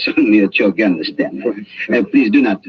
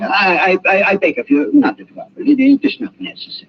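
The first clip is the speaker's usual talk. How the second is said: stammering, pitched high and anxious; flustered pleading; 10 semitones higher than usual. Acted. Doctor frantically begs his guest not to raise the blinds, flustered and high. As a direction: beg him to leave the blinds alone.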